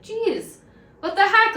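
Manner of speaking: sudden high, loud "what the heck"; shocked outburst. Retold or imitated. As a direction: blurt it out, stunned and indignant. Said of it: "And I was like".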